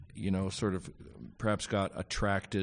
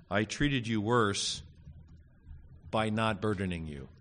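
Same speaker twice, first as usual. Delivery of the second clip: sarcastic. Retold or imitated. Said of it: "he's speaking sarcastically".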